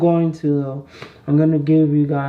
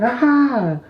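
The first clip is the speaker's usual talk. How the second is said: retold scream; 8 semitones higher than usual. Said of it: "I screamed".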